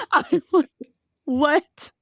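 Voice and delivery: high, laughing "what?"; overwhelmed with laughter; stunned laughter. Real, not acted.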